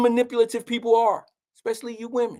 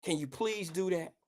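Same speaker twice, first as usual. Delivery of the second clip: much softer, lower pleading; quiet plea; 4 semitones lower, 10 dB quieter than usual. Retold or imitated. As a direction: beg her gently, almost under breath. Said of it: "And I said".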